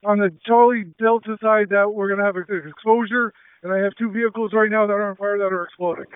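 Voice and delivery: tense, pressing radio report; urgent firefighter radio. Real, not acted. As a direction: report the danger fast and tight. Commander reporting exploding vehicles on fire.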